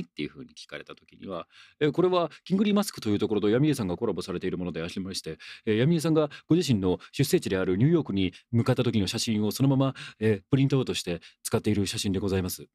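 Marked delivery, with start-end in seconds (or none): 1.8-12.7 fast, ultra-polite product spiel; put-on courteous presenter patter; formal explanatory tone. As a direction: recite it like an official explanation. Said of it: "必ずこの口調でお願いします".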